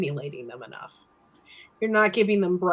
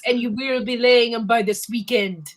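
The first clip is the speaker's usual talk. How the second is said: drill sergeant; 4 semitones higher, 7 dB louder than usual. Pretend. Joining the drill sergeant joke.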